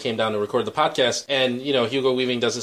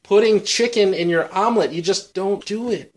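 high, loud exasperation; really bothered; 7 semitones higher, 5 dB louder than usual. Real, not acted. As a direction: object as if personally offended by the meal. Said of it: "You're really bothered by that".

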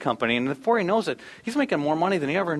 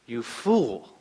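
God's grave verdict; 4 semitones lower than usual. Acted. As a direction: let it land as a divine verdict. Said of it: "It's God says".

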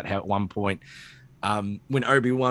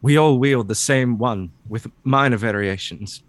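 Tarkin voice; 5 dB louder than usual. Acted. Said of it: "That slipped into Tarkin".

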